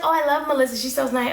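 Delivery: high, gushing mock friend voice. Vlogger mocking the friend who says Melissa. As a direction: parody her sweet gushing. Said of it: "she's like".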